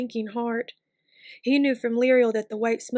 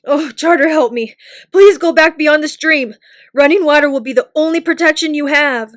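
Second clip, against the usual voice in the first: loud, pleading urgency; urgent plea; 5 semitones higher, 13 dB louder than usual. A narrator's reading. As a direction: beg them to go back, loud and afraid. Sam pleads urgently before battle.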